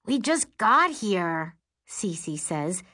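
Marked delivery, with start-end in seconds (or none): 0.1-1.6 snarky. Acted. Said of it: "more snarkily than necessary".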